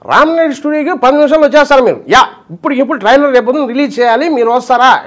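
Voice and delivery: fast, lightly voiced film director; lightly voiced rushed director call; RGV impression. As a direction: rattle it off quickly like a busy director on the phone. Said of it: "RGV, RGV".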